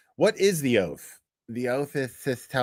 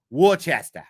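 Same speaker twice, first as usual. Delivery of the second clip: louder Boston "Worcester", said as "Wool-chestah"; Boston r-less Worcester; Boston accent; 5 dB louder than usual. Shown as a demonstration. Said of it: "I'm doing the Boston accent with it too".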